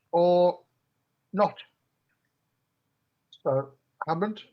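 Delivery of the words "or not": loud, pitched-up teasing warning; sly threat. Acted. Character warns the captive he may lose out, sly and loud. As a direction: let the threat hang after a long pause.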